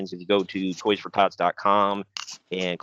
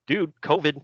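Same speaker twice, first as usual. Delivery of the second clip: high-pitched; 7 semitones higher than usual. Retold or imitated. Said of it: "he'd go".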